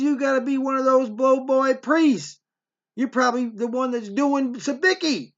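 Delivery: imitated mother's high-pitched accusation; mock-indignant telling-off; accusing.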